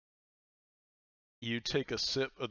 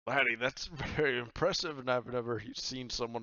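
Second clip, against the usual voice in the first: impressed captain; 2 semitones higher, 3 dB louder than usual. Acted. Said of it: "and he says".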